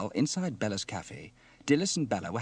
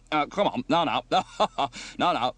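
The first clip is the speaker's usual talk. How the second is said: loud, stammering placating with nervous laughs; awkward reassurance; 5 semitones higher, 8 dB louder than usual. Acted. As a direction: hush a wailing woman clumsily. Steele soothes a wailing woman awkwardly.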